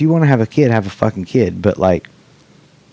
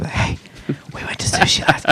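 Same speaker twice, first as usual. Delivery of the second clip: imitating dad's conspiratorial whisper; 8 semitones higher, 6 dB quieter than usual. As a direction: whisper it like secret news. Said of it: "he would, like, whisper it".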